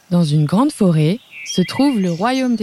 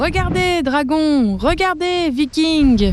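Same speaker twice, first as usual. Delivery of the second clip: joyful shout; 8 semitones higher, slower than usual. Acted. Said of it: "Ils crient tous les deux très fort".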